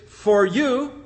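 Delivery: "for you" stressed, with weight on "you". Shown as a demonstration. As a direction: lean deliberately on "for you". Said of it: "The emphasis there".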